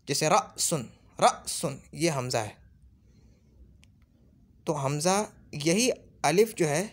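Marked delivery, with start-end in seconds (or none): 0.3-1.8 र सुन with a sharp glottal catch at the start; jerked hamza. Shown as a demonstration. Teacher demonstrating hamza read with a jerk. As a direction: clip the start with a jolt. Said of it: "अगर झटके से पढ़ा जाएगा".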